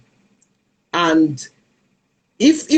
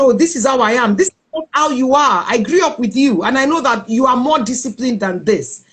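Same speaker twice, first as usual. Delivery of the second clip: higher-pitched, earnest brotherly challenge; retold insistent rebuke; 4 semitones higher than usual. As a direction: push back on the excuse, voice lifted. Brother rejects her excuses, retold.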